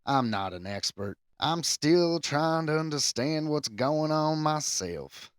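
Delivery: put-on lightly drawled Southern accent on an English rocker's words. Podcaster reading a rock musician's quote in a Southern accent. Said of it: "I'm going back to Southern".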